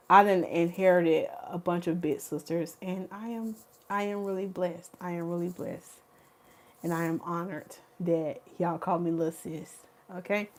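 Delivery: soft, low-key gratitude; quietly moved and thankful; humbled sincerity. Real, not acted. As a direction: count the blessing softly. Moved, counting her blessings aloud.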